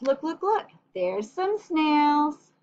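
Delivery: excited. Real, not acted. Excited pointing to child.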